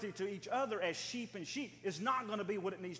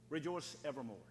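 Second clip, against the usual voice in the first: Rejoice evermore said lower and softer; quiet repeat; 6 semitones lower, 6 dB quieter than usual. Shown as a demonstration. Preacher quietly repeating the verse to himself. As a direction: savor the words quietly. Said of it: "Just those two words".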